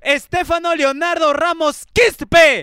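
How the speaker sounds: Quispe punched at the end; roll-call name with emphatic Quispe; announcer-like tone. Real, not acted. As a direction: read the name out with a big hit on Quispe. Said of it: "haciendo ese tono".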